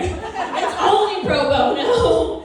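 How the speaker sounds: "It's only pro bono" stretched slowly; slow, emphatic "only pro bono"; drawn-out punchline. Pretend. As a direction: drag out "only" and "bono" for the joke. Drags out repeated punchline.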